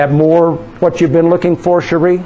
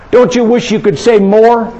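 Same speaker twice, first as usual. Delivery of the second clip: ordinary talk, nothing marked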